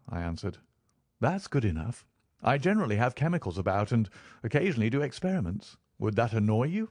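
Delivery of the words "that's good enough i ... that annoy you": lightly voiced eager flatmate, a little higher; a touch of brisk, friendly frankness; affable Holmes. Holmes checks his habits won't annoy Watson, lightly voiced affability.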